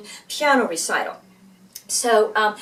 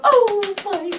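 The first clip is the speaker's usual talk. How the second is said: much higher, swooning "Oh, my"; gushing piano teacher; 10 semitones higher than usual. Retold or imitated. Teacher admiring the brother's little hands, high swoon. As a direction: melt over his little hands. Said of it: "you know, like that".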